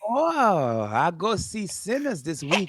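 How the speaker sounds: put-on comic Chinese-accented English; imitated Chinese accent, measured delivery; mock Chinese accent. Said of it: "that is a perfect, perfect accent".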